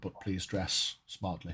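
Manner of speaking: put-on "please dress smartly" in a soft, lightly posh English accent; quiet posh English sign-off; understated posh English accent. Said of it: "saying it in a posh accent".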